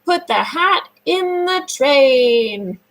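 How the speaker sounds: put-on each word drawn out for the child to copy; slow, clear modelling. Shown as a demonstration. Therapist models the full sentence for the child, slow and clear. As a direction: say it slowly so they can repeat. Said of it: "say it for me".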